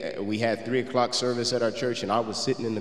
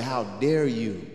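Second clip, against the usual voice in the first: inner angry thought; slower than usual. Retold or imitated. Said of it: "in my mind, I said".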